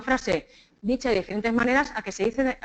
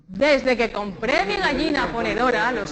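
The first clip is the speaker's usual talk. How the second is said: slow, measured recitation on one breath; ejercicio de respiración; slower than usual. Shown as a demonstration. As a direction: recite it slowly as a group breathing drill. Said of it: "Cogemos aire". (recitado lento con una sola respiración)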